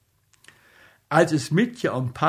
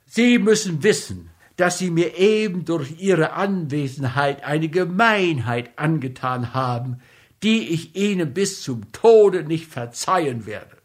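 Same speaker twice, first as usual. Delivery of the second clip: angry; 4 semitones higher, 3 dB louder than usual. Acted. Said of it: "außer sich vor Wut".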